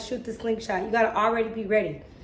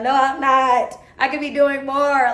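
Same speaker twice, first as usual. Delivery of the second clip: louder, higher insistent protest; emphatic self-correction, raised voice; 3 semitones higher, 6 dB louder than usual. Retold or imitated. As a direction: push back hard, loud and a little high. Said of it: "I'd be like".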